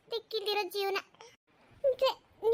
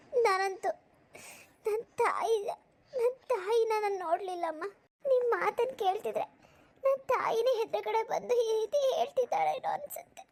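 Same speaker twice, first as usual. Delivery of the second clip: moved to tears, halting at first; tearful; 2 semitones higher than usual. Acted. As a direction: choke up remembering a mother you never saw. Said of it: "ಅಳ್ಬೇಡ ಕಣವ್ವ".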